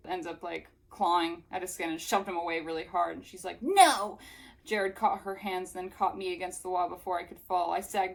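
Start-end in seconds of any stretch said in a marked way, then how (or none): 3.6-4.2 loud, high, drawn-out refusal; acted outcry. Melanie fighting Jared off, loud mock outcry. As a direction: cry out as if shoving someone off. Acting Melanie shoving him away.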